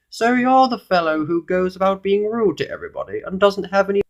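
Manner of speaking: high, regal sizing-up; goblin king. A narrator's reading. King meeting the famously rude visitor, high regal voice. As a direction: address him as a high-voiced monarch. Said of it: "said the king".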